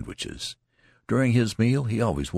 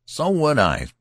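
high, loud emphatic agreement; loud soldier backing the youth up; 9 semitones higher, 6 dB louder than usual. Acted. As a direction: jump in hard on his side.

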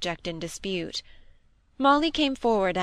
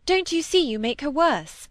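raised, higher scolding question; indignant rebuke; 7 semitones higher, 4 dB louder than usual. Acted. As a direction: scold him for upsetting her. Molly rebukes Preston.

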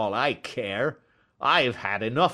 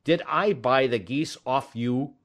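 irate salesman, pitched up and emphatic; fierce anger; 7 semitones higher, 5 dB louder than usual. A narrator's reading. Salesman berating the man asking after geese, fiercely. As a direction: tell off a pest with force. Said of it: "shaking his fists fiercely".

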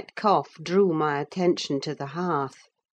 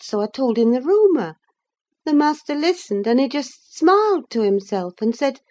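high, bright-voiced chattering servant woman; Zillah the servant; 8 semitones higher, 5 dB louder than usual. Zillah to Nelly, eager gossiping servant voice. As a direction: fuss over her like a gossiping maid. Zillah retelling village rumour.

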